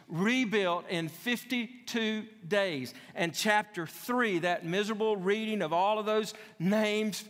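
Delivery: high, driving pulpit delivery; impassioned preaching. Real, not acted. Preacher warns congregation against rebuilding alone, impassioned preaching. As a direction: preach it hard, pitch climbing through the list.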